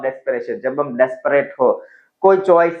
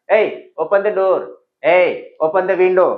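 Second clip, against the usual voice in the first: bossy order; 2 semitones higher, much slower than usual. Shown as a demonstration. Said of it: "और again".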